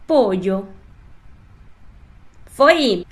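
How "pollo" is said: Pollo with a Y sound; Spanish LL. Shown as a demonstration. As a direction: say Pollo clearly for repetition. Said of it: "Então, repete lá".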